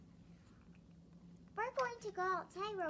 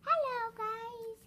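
calling out; 5 semitones higher, 7 dB louder, much slower than usual. Pretend. Arriving, calling to friends.

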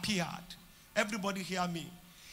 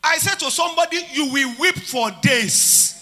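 loud, fervent preaching; preaching at full force; 4 semitones higher, 7 dB louder than usual. Real, not acted. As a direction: proclaim it to the congregation. Preacher shouting sermon.

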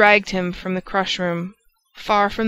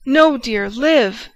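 grave changed voice; 4 semitones higher, 6 dB louder, much slower than usual. A narrator's reading. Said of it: "grave and changed voice".

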